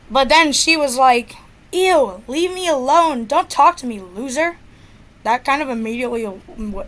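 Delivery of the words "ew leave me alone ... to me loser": imitated snooty brush-off, lilting upward; mildly mocking mean-girl voice; rude dismissal. Girl rejecting a boy who liked her, rude. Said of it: "she was so rude to me".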